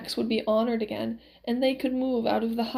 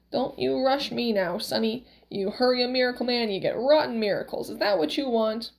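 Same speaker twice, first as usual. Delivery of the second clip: lightly voiced crotchety old man; a touch of indignant old-man bluster; Max, cranky miracle man, scolding. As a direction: scold a pushy customer.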